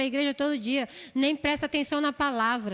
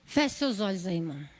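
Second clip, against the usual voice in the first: gentle invitation; 7 semitones lower than usual. Real, not acted. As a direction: guide the brother inward, gently. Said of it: "Eu quero pedir pra você fechar os teus olhos".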